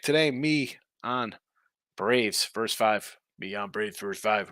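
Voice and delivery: slow, simple caveman talk. Pretend. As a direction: play a dumb caveman, drawn out slowly. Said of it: "It's my little caveman impression".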